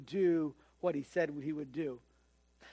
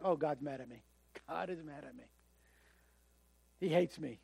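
mock despair; 3 semitones lower, 5 dB quieter than usual. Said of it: "you're gonna be like".

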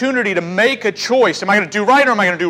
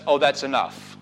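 sin sated; 8 semitones lower, 6 dB quieter than usual. Acted. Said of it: "sin never says".

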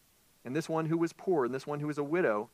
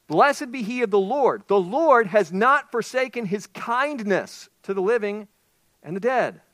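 high, loud, slow joyful blessing; excited Naomi; 8 semitones higher, 11 dB louder, slower than usual. Acted. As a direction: proclaim it with joy. Naomi's blessing, reread emphatically.

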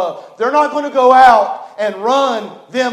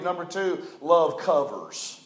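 quiet point; 5 semitones lower, 8 dB quieter, slower than usual. Real, not acted. Announces second point softly.

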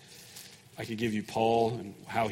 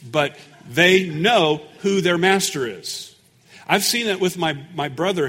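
full-force preaching; 4 semitones higher, 7 dB louder than usual. Acted. Pastor telling the congregation about his brother's call, preaching loud. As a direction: preach it out loud, hammering home each point.

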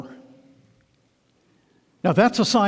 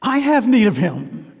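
higher, louder insistent plea; crying out; 6 semitones higher, 5 dB louder than usual. Acted. Blind Bartimaeus answering the crowd, crying out. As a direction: cry it out in urgent need. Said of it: "He cried out".

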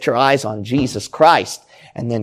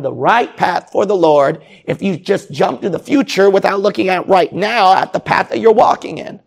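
higher, louder, faster preaching, pressing the congregation hard; fiery preaching; 6 semitones higher, 4 dB louder than usual. Real, not acted. Preaching builds to full force.

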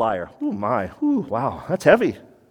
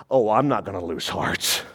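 put-on elderly person; 8 semitones lower, 4 dB quieter than usual. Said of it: "what this person said at eighty-two".

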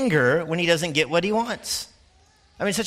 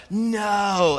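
put-on sharp higher defiant child's no; a mock toddler's shout; kid yelling no; 6 semitones higher than usual. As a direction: mimic a kid shouting back at mom. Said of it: "You hear the kid yell".

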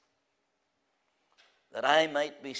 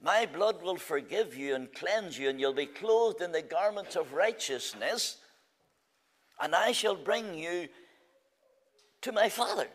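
Christ's promise. Retold or imitated. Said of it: "he says to the sinner".

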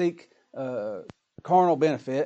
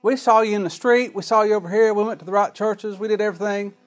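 higher, louder insistent protest; protesting outsiders; 6 semitones higher, 5 dB louder than usual. Retold or imitated. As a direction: plead your case to the master, pushing. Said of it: "He said in that same parable".

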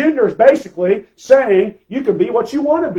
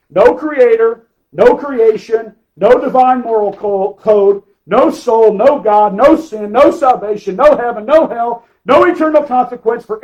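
hammered-out pulpit list; emphatic preaching list; 5 dB louder than usual. Acted. Preacher listing what humanism denies to the congregation, emphatic. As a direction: punch each denial, loud and separate.

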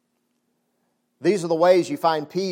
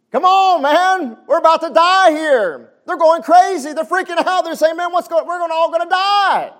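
much higher and louder, frantic; panicked disciples; 12 semitones higher, 10 dB louder than usual. Acted. Disciples in the storm, panicked shouting. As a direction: yell like the boat is sinking.

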